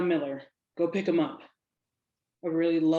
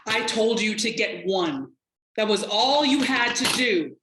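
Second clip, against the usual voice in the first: sharp, louder rebuke; exasperated boss, raised voice; scolding; 4 semitones higher, 5 dB louder than usual. Acted. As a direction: scold him for failing one simple job. Boss scolds agent for missed photo.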